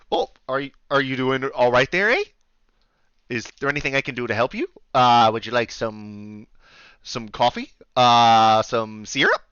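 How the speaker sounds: solicitous Canadian innkeeper, lightly done; Canadian accent. Acted. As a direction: offer help with a Canadian lilt. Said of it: "deal with the accent".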